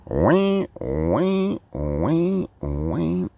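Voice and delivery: high mocking wah wah, fading down; mock whining wah. Mocking the traveller's complaints as a whiny wah wah. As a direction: whine it like a sulky child.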